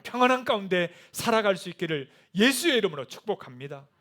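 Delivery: rising sermon climax for the congregation; preaching at full force. Real, not acted. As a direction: lift the whole room with each because.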